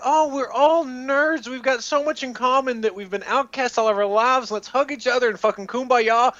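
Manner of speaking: mock sappy nerd voice. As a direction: play the wide-eyed nerd crying kumbaya. Mocking season one cast.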